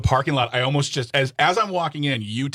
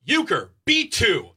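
high, slow sing-song; sing-song reminder; 9 semitones higher, much slower than usual. Retold or imitated. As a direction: chant it slowly to remember. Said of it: "I'll say it out loud like that".

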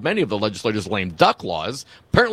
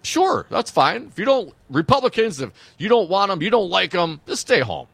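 petulant huff; 8 semitones higher than usual. Retold or imitated. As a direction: sulk like a sore loser. Mocking Kelly, take ball home.

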